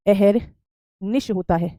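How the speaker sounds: अहरनिश drawn out very slowly, syllable by syllable; teacher dictating the correct word very slowly; very slow dictation. Shown as a demonstration. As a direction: stretch every syllable of अहरनिश so students can write it. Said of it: "अहरनिशी जैसा कोई श".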